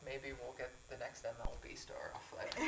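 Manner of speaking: laughing whisper. Real, not acted. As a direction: giggly joke under breath. Joking aside in meeting.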